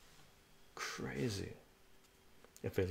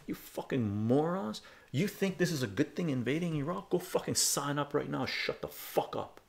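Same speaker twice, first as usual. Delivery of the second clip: raised-pitch scolding, dropping at the end; going off on them; 5 semitones higher than usual. Retold or imitated. Last words to pub yahoos backing invasion, angry. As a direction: reenact a scornful telling-off. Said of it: "I fucking went off on them".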